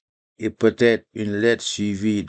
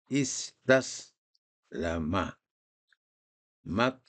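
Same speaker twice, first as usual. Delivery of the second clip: much softer, slow syllable-by-syllable reading; 7 dB quieter, slower than usual. Shown as a demonstration. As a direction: read it again quietly for repetition. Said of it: "je vais donc lire une deuxième fois". (relecture douce, syllabe par syllabe)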